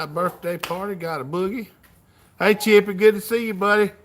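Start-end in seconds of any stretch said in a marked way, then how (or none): 2.4-3.9 louder, higher hello to a friend; light up as a regular shows up; greeting a viewer who popped in, loud and glad; excited greeting. Real, not acted. Greeting viewer in live chat.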